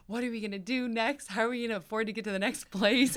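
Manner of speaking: imitating herself in tears, panicked. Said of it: "I'm literally crying".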